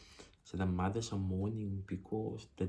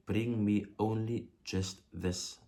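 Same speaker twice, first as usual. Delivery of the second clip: slow, firm demand, each word placed. Shown as a demonstration. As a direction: insist on it like an order. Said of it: "being demanding or forceful".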